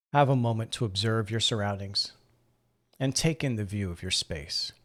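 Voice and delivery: calm, measured meditation guide, long pauses between phrases; guided meditation. Acted. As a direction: gently guide them into breathing and relaxing. Leads a seated breathing meditation.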